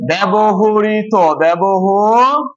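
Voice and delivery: very slow, syllable by syllable ব্যবহৃত; slow reading aloud. Shown as a demonstration. Teacher to pupils, reading ব্যবহৃত very slowly. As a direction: spell out ব্যবহৃত slowly for the class. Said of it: "আরেকটা শব্দ বলো তো".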